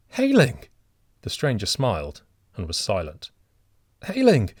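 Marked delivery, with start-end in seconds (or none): 0.1-0.6 high, loud cry of a name; horrified cry. A narrator's reading. Old father crying out to the stranger, high and loud. 4.1-4.5 high, loud desperate call; wild cry. A narrator's reading. Old man calling wildly to the stranger. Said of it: "said the old man wildly".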